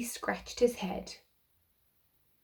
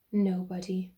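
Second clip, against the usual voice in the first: a touch of low mournful melancholy; 3 semitones lower than usual. Acted. Ghostly Mister Nobody answering Mister Happy, mildly mournful. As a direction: sigh it out, lightly mournful. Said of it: "in a mournful, melancholy voice replied".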